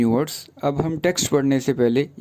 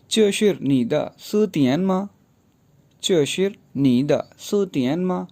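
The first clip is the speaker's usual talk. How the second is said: slow, clear question reading; reading Chinese question; 3 semitones higher, slower than usual. Shown as a demonstration. Teacher reading Mating's question to Tawe aloud. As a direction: read the Chinese question slowly and carefully. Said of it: "मातिंग ने सवाल किया".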